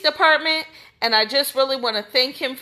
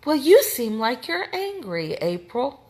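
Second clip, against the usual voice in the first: mocking the chief. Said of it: "what Chief Marion said to her".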